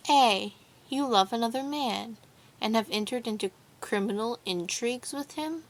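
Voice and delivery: mildly mocking imitation of a husband; mimicking her husband. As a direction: lightly put on the accusing husband. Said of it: "Mimicking her husband".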